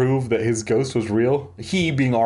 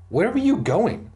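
higher-pitched called question; calling out; 10 semitones higher than usual. A narrator's reading. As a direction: call after them in a raised pitch. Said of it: "Roxanne called".

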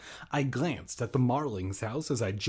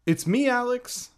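put-on higher, louder girl's voice calling; 11 semitones higher, 6 dB louder than usual. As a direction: call down as Hannah. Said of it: "a familiar voice called down".

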